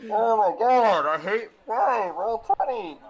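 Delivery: high, loud exasperated whine. Real, not acted. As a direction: complain loudly in disbelief. Frustration at failed roll.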